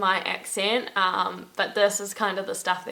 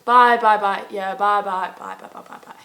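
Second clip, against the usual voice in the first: rapid-fire byes dying away; Irish phone goodbye. Retold or imitated. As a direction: imitate an endless sign-off that trails into a whisper. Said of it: "they will literally be like".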